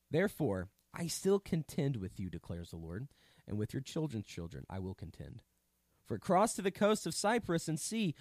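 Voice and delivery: declaimed Bible passage; scripture reading. A narrator's reading. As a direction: read it out as a solemn warning. Reads scripture aloud.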